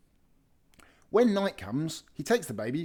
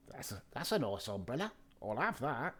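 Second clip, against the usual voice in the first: hushed burglar; 9 dB quieter than usual. Acted. Burglar voice in the dark.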